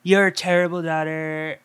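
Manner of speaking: Trumpy Cage voice. Retold or imitated. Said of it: "he's like".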